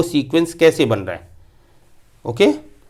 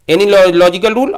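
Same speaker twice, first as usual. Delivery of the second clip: slow reading; 4 dB louder, much slower than usual. Shown as a demonstration. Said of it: "यहाँ पे हमने लिखा है".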